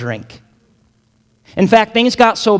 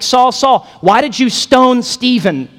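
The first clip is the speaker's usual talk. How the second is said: higher, petty complaining voice; mock whiny Jesus; 7 semitones higher, 3 dB louder than usual. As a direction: whine it like a petty grudge. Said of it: "Jesus isn't like".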